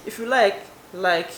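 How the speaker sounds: "If you like, like." tossed off with a shrug; offhand sarcasm to viewers; sarcastic. Acted. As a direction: throw it away, mock indifferent. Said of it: "I was only being sarcastic".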